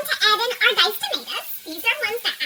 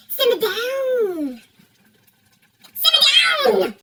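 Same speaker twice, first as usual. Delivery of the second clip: drawn-out shout; much slower than usual. Shown as a demonstration. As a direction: belt out "Simmer down" slowly. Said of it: "what you need to do is simmer down".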